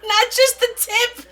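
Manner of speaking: squeaky, high giggling line; laughing. Real, not acted. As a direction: blurt it out through giggles, drawn out. Cracking up at the innuendo.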